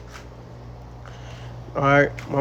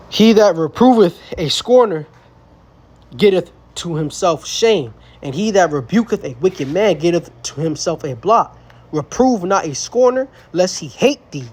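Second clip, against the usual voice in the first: raised, solemn Bible-reading voice; scripture reading. Acted. Preacher reading Proverbs aloud to a young man, solemn declaiming.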